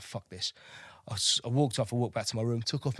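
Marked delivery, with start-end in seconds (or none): 0.0-0.5 1 muttered under breath. Retold or imitated. Walking off from the march.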